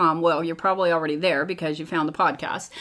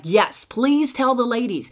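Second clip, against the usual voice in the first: higher, lightly excited plea; excited doctor; 5 semitones higher, 3 dB louder than usual. Retold or imitated. Doctor urging her to teach the women, excited. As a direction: urge it on with mild excitement. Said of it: "he got so excited".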